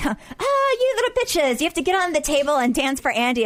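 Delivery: high, mock-commanding party call; hammed-up tipsy command; bossy hostess. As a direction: boss the girls onto the table. Host ordering everyone to dance.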